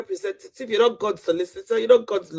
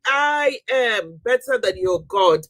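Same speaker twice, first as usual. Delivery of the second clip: shouting; 3 semitones higher, 4 dB louder than usual. Real, not acted. Shouting down a Christian caller on a live panel. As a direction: hurl it at the believers.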